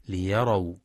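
ليروا with ya opened, liyaraw; wrong fatha reading. Shown as a demonstration. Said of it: "بفتح الياء". (ليروا بفتح الياء)

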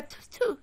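imitated spit on the syllables; spitting sound. Shown as a demonstration. Co-host mocking the slang word as spitting, spat out. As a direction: make tutu sound like spitting. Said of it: "That sounds like spitting".

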